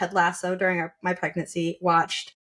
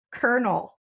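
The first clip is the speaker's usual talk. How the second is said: put-on toddler's answer; 6 semitones higher than usual. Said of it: "He's like".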